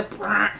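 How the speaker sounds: short sputtering lip buzz; loud gas noise. Shown as a demonstration. Demonstrating the noisy kind of gas, short sputter. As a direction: blurt out a quick raspberry. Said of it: "you know, not the".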